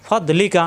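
ফদ লিকা with লিকা kept short; don't stretch the vowels in লিকা; short quick vowels. Shown as a demonstration. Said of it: "হারকাতের উচ্চারণ তাড়াতাড়ি". (ফদ লিকা, হারকাত তাড়াতাড়ি)

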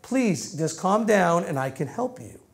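softly spoken parental plea; gentle pleading. Acted. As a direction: gently coax an upset child. Parent pleading with upset child.

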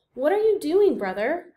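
sudden high call to brother; Coyote calling out. Acted. Coyote voiced in read story.

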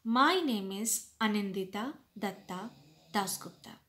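name said crisp and clear, every syllable of "Anindita Datta Dasgupta" distinct; said properly. Shown as a demonstration. Teacher showing students how to give their name, crisp and clear. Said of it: "say it properly".

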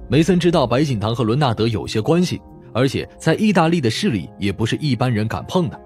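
ordinary delivery

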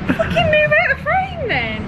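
high, slow exasperated yell. Real, not acted. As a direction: yell it out, fed up. Annoyed at friend in frame.

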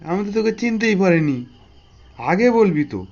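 delighted, apologetic exclamation; pleased recognition. Acted. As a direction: lift the voice on recognising an old friend. Boss suddenly recognises childhood friend.

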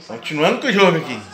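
ordinary talk

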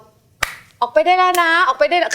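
high, slow, polite coaxing; sweetly negotiating with a lizard; gentle negotiation. Retold or imitated. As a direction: coax the gecko out kindly and slowly. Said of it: "เหมือนเป็นเจรจา".

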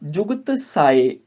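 ਜੁਗਤ ਸਾਏ slow, stopping on ਸਾਏ; pause after ਸਾਏ. Shown as a demonstration. Teacher shows the pause after ਜੁਗਤ ਸਾਏ. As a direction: halt on ਸਾਏ. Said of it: "ਸਾਏ ਤੇ ਫੇਰ ਰੁਕਣਾ ਹੈਗਾ".

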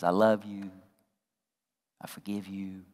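low, hushed imitation of wife; very soft, tender retelling without sobs; tearful forgiveness, imitated. Wife forgiving husband, imitated softly. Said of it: "she starts crying".

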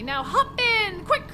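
urging driver. Acted. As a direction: hurry them along in the driver's voice.

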